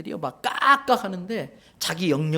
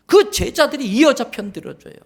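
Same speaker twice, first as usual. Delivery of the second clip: usual speaking voice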